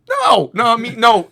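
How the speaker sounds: loud, high re-enacted protest; high-pitched confused voice. Worker objecting to being hit, high-pitched confused voice. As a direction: shoot up high in baffled objection. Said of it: "my high-pitched, like, I'm confused voice".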